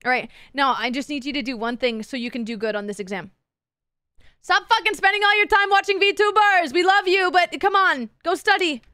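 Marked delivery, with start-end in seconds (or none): 4.4-8.8 playful scold. Acted. Scolding a viewer to study.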